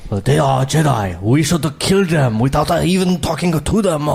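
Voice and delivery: mock alien official's heavy accent; Trade Federation guys. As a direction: put on a stilted foreign-accented villain voice. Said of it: "like, the Trade Federation guys".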